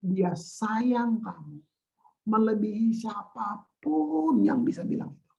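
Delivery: slow, drawn-out heartfelt insistence; tender assurance. Real, not acted. Preacher repeating to listeners that they are loved, tender.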